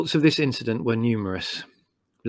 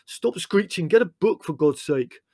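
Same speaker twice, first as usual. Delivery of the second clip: high, impatient command over the din; exasperated order; 7 semitones higher, 3 dB louder than usual. Acted. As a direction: order them about, thoroughly exasperated. Leslie shouting orders back.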